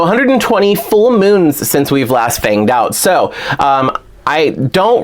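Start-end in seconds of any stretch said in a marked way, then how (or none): 0.0-2.9 lightly voiced Brooklyn accent, pitched up; a hint of Brooklyn character voice; Claudine. Doll fan repeating the blurb line, light Brooklyn accent. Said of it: "kinda like a Brooklyn accent".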